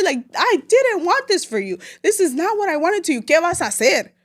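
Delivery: imitating mom scolding her daughter; mock scolding mom.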